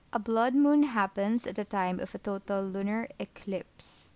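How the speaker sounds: speaking carefully with a sore tongue. Real, not acted. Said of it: "my tongue hurts".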